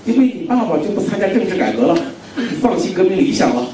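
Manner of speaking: mock critics. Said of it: "有好多朋友们说".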